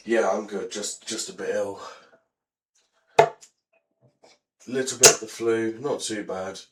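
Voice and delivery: hoarse, ill voice; lost voice. Real, not acted. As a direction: talk through a lost voice. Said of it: "as you can hear, I basically lost my voice".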